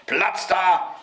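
put-on high, pushy child's yell; shouted order. A narrator's reading. Boy charges into the crowd of stars, high shout. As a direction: yell to clear the way. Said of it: "schrie Häwelmann".

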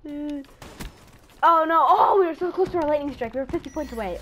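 loud, high-pitched lament; dismayed wail. Real, not acted. Gamer who just missed a lightning strike, dismayed wail. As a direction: wail over a near miss.

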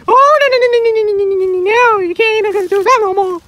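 rapid high, loud string of no; panic, plead no over and over; panicked no. Acted. Panics at the squirrel.

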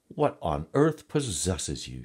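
a touch of clucking exasperation; clucking hen. A narrator's reading. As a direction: exclaim like a mildly put-out hen. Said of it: "she clucked".

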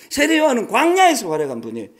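normal talking voice

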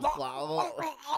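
high, sloppy tongue-out "oh"; loose-tongued mock Australian noise. Shown as a demonstration. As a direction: imitate an Australian with tongue hanging out. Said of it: "like your tongues out of your mouth".

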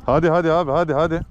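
urgent cheering-on; excited urging. Real, not acted. Urging friend during the catch.

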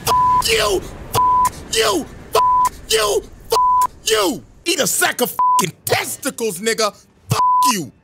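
screaming rage. Real, not acted. Gamer screaming at the boss that beat him, shrieking. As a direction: scream it at the screen again and again.

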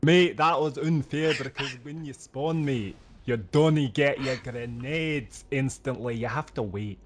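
light put-on Scottish brogue, mate after mate; mock Scottish accent. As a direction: grumble about the spawn in fake Scottish. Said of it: "I'm so focused on speaking Scottish".

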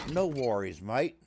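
lightly Australian catchphrase; attempted Australian accent. Shown as a demonstration. Streamer checking if the accent is close, attempted Australian accent. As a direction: recap the phrase in an Australian accent. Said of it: "are we getting close?".

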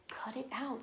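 whispered cut it out to the dog; imitating husband's whispered scold; hushed scold. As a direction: hiss it under your breath.

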